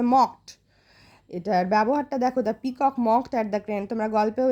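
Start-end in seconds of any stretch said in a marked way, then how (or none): 0.0-0.5 "মকড" as a single joined syllable; said together. Shown as a demonstration. Teacher telling pupils not to split it, "মকড" said in one go. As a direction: model "মকড" in one piece, unbroken. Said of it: "একসাথেই উচ্চারণ করতে হবে".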